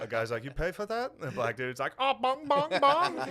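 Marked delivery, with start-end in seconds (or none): 0.4-1.1 high-pitched mock Asian accent. Store owner questioning a customer, high mock Asian accent. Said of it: "convenience store". 2.0-3.3 high, very loud mock outburst; hammed-up yelling, pitched way up; mock shouting. Customer and store owner arguing, loud high mock shouting. Acted convenience store quarrel.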